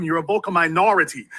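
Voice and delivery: emphasis on "minority", not on "vocal"; stress on minority. Real, not acted. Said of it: "Emphasis on the word minority, not vocal".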